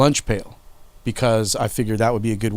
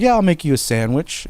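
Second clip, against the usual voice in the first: higher-pitched, easy yes; lightly mimicked willing helper, pitched up; casual agreement; 6 semitones higher than usual. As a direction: imitate a brother breezily agreeing, nothing to suspect. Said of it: "'cause he's like".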